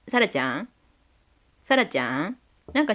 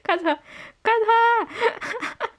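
excited shout; 12 semitones higher, much slower than usual. Real, not acted. Fan shouting character's name.

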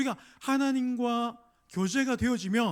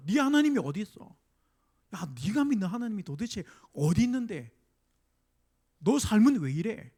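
scornful taunt. Retold or imitated. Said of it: "이렇게 얘기하는 거예요".

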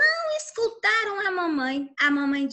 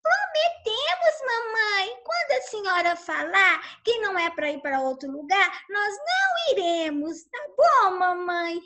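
eager promise; 3 semitones higher than usual. Acted. Ducklings promising.

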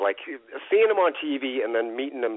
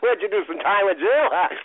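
cackling mock greeting, pitched way up; Roddy; 11 semitones higher than usual. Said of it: "Great impersonation of me".

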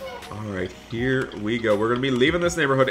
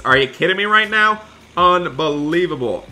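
loud, high disbelief; can't believe this kid; loud mock outrage; exasperated; 5 semitones higher, 5 dB louder than usual. Exasperated at shouting student.

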